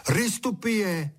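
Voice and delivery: high, slow call across the yard. Acted. Boy calling to a bird, drawn out.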